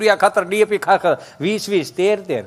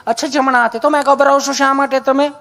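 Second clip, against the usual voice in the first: nurse asking; 5 semitones higher than usual. Retold or imitated. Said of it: "nurse બેન".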